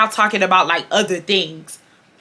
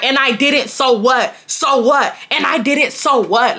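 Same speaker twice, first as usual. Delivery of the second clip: pitched-up retort, repeated defiantly; defiant comeback; 3 semitones higher than usual. Retold or imitated. Boy giving July action back, defiant. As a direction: imitate a boy refusing to back down. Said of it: "he giving her every bit of action back".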